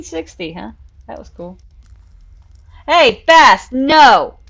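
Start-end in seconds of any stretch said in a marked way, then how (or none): 2.9-4.4 loud sharp no to the cat; scolding. Real, not acted. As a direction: stop the cat from eating the wrong food.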